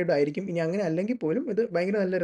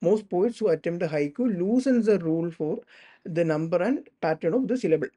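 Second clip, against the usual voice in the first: slow dictation; much slower than usual. Shown as a demonstration. Reads definition slowly.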